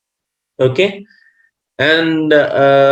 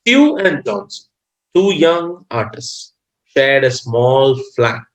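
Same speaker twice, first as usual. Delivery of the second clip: story reading; 2 semitones higher than usual. Acted. Teacher reads the lesson's story to students, measured read-aloud.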